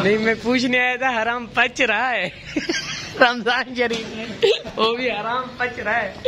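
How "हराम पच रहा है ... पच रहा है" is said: high, laughing through a teasing question; laughing tease. Real, not acted. Vlogger teasing shopkeeper friend, laughing through it. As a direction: chuckle through each word at a friend.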